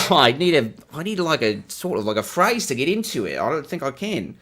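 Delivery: put-on feeling your way into an Australian accent; hammed-up, uncertain Australian twang; attempted Australian accent. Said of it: "Do I know how to do Australian?".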